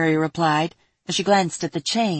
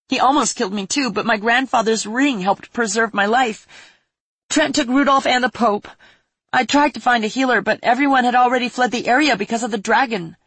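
through sniffles; 6 semitones higher, 4 dB louder than usual. Acted. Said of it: "she said through sniffles".

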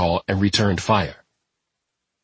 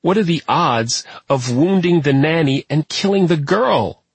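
weeping; 8 semitones higher than usual. Acted. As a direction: cry it out in despair. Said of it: "still weeping bitterly".

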